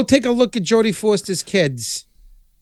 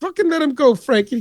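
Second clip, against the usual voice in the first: higher mock mobster plea; movie quote; 9 semitones higher than usual. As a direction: quote the movie line with gusto. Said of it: "bury him when he's still breathing".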